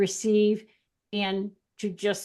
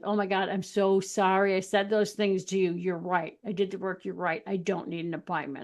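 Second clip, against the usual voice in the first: softer, fading contrite client; sheepish apology; 2 semitones lower, 4 dB quieter than usual. Retold or imitated. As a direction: mumble a sorry apology, trailing off. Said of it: "they're like".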